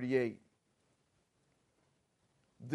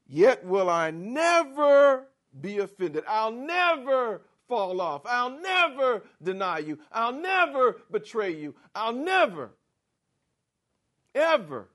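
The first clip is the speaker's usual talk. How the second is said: Peter's loud, high boast of loyalty, hammering every never; bold declaration; 5 semitones higher, 4 dB louder than usual. Acted. Preacher voicing Peter, loudly vowing he'll never fall away. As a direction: swear you'll never fail, loud and sure. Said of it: "This is Peter's declaration".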